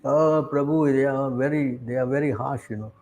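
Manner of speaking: low, subdued mock grumble; mock complaint. Reluctant devotee complaining to a friend about harsh teachers, subdued.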